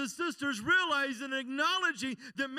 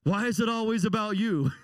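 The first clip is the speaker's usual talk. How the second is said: acted retort; 3 semitones lower, 6 dB louder than usual. Acted retort to his question.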